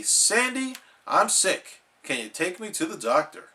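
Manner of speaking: fast rushed repeat of the plea; quick parroted plea. Acted. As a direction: rattle it off quickly.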